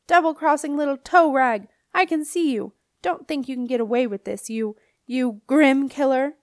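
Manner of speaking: high, loud angry yell, slowing at the end; furious yell. A narrator's reading. Linda yelling at Wolf Boy from the cellar, furious. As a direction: scream your fury at the fleeing boy. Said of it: "Linda's furious yell".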